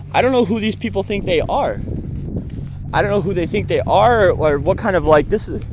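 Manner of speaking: exasperated outrage. Real, not acted. Furious venting about shelter staff.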